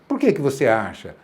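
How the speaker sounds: pergunta em tom mais baixo, sem confronto; pergunta consultiva. Shown as a demonstration. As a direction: pergunte sondando a opinião, em tom contido. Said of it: "Percebe o tom? O tom é importante". (tom consultivo, sem confronto)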